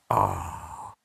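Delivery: soft, voiceless mock gasp; retold group reaction. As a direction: breathe out a low, hushed "ah". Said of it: "and everybody's like".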